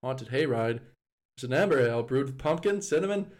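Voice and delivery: reading a beer label in a light mock Australian accent; lightly put-on Australian accent, label read like an ad; a hint of Australian accent. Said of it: "can I do an Australian accent?".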